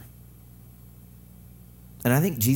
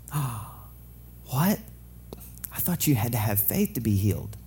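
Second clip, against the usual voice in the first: mock surprise; 5 dB quieter, slower than usual. Shocked listener objecting.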